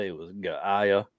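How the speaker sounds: Gaia stretched to guh-EYE-uh; second guess, Gaia as guh-EYE-uh; trying out a pronunciation. Shown as a demonstration. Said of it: "didn't know how to pronounce it".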